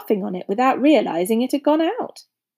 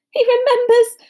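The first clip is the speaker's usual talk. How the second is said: high, loud, thrilled exclamation; overjoyed fan, voice raised; excited cry; 14 semitones higher, 7 dB louder than usual. A narrator's reading. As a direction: cry out in delight. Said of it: "cried Dedalus Diggle".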